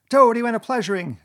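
loud, high, frenzied Toad yell. A narrator's reading. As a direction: yell it with injured pride. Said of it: "he yelled".

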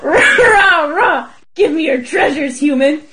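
laughing mock dragon growl; hammed-up dragon, rah rah, half laughing. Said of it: "my recreation of it".

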